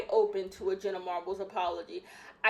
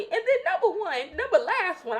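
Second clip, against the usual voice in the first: laughing; 10 semitones higher, 4 dB louder than usual. Real, not acted. Laughs at own slip.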